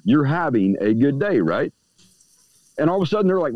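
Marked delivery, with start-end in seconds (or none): 0.0-1.7 slow, sure statement, no question in it; telling, certain. Shown as a demonstration. Speaker telling a stranger they're fine, slow and certain. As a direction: tell them, don't ask. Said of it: "You tell them they are".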